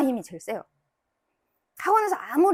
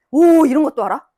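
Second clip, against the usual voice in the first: delighted praise; 2 semitones higher, 8 dB louder than usual. Shown as a demonstration. Teacher demos praising a child.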